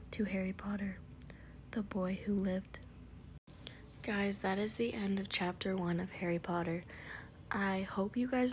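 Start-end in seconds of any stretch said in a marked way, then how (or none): 0.1-2.8 hushed, reverent toast. Acted. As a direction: toast him in a hush. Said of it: "saying in hushed voices".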